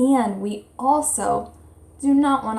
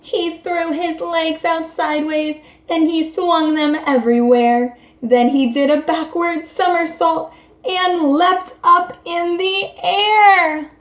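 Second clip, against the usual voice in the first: put-on reading to children; 6 semitones higher, 4 dB louder than usual. Lively story reading to children.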